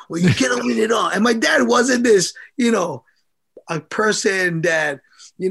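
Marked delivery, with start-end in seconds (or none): 0.1-1.1 fast, raised, blunt reply; blunt dad. Retold or imitated. Dad telling his crying son he can't win it all, blunt. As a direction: brush it off like a tough father.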